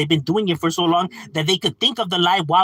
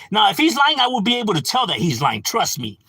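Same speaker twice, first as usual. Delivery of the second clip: mock boastful believer; 6 semitones higher than usual. Streamer imitates an insecure person insisting they'd spot a liar, mock boastful. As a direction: puff up like someone sure nobody fools them.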